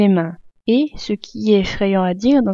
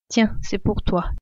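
gentle gift. Acted. The traveller gives the frightened child the doll, gently. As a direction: hand it over tenderly, unhurried.

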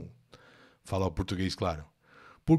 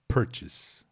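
whispered. Shown as a demonstration. Teacher whispers "Purchase" so students won't copy it. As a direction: hush it: "Purchase", barely voiced. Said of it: "Vou falar baixinho aqui".

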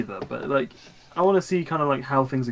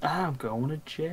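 drawn-out meme echo; 7 dB quieter, slower than usual. Acted. Echoes meme, softer and slow.

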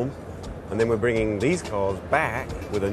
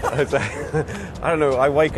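real laugh through the words, slow and higher; 5 semitones higher, 5 dB louder, much slower than usual. Real, not acted. Series founder laughing at interviewer's question about launching. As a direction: chuckle it out, half embarrassed. Laughs at own crazy decision.

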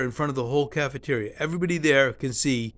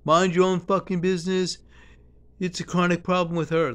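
raised, higher mock scolding; retold angry yelling; 5 semitones higher than usual. Woman telling the speaker off in the cafeteria, a raised mock yell. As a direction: imitate her snapping back a bit up in pitch. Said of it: "starts yelling at me".

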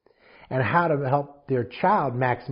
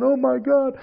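retold bawling; 11 semitones higher, 5 dB louder, slower than usual. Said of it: "I was bawling".

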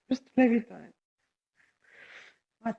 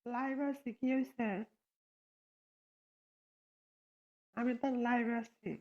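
hoarse voice; 10 dB quieter than usual. Real, not acted. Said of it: "গলা বসে গেছে".

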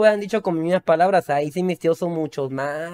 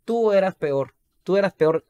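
mock relatives. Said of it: "porque dicen".

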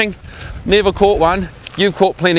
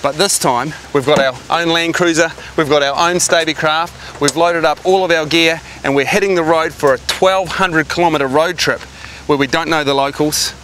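rehearsed piece-to-camera intro; adventure-show opener, measured and emphatic. Shown as a demonstration. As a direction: build up the road trip like a presenter. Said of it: "How did that sound for an intro?".

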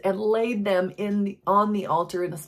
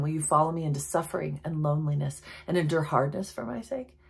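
softer reread; 3 semitones lower, 5 dB quieter, faster than usual. Shown as a demonstration. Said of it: "I'm gonna read that part again".

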